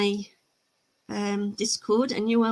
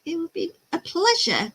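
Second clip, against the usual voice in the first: higher, mock-posh British accent; hammed-up British accent, pitched up; 8 semitones higher than usual. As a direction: put on a prim British accent, like an American trying it. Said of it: "sounds like an American doing a British accent".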